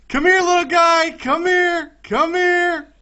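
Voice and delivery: high, loud sing-song coaxing. Real, not acted. Gamer coaxes a little mob, high sing-song. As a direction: lure the creature in.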